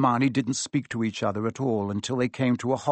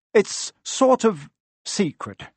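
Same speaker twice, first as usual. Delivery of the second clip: slow, higher, unsure; a hint of nervous Harry; hesitant boy; 8 semitones higher, 4 dB louder, slower than usual. A narrator's reading. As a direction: let it slip out reluctantly.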